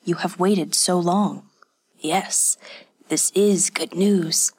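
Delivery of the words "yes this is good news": quiet jubilation. Acted. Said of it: "The man's voice betrayed his jubilation".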